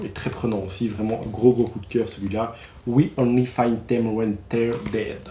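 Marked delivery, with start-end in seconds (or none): 2.9-5.2 slow, deliberately French-accented English title; mock-proud English with a thick French accent; English with heavy French accent. Shown as a demonstration. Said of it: "avec mon superbe accent". (anglais avec un fort accent français, lent et appuyé)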